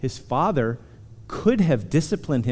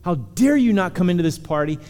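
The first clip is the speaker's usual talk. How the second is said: imagined angry father; 7 semitones higher than usual. Pretend. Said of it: "He could have said".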